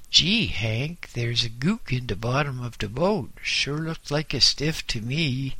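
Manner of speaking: lightly nasal sailor voice. Acted. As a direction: speak it a bit through the nose. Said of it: "The nasal voice".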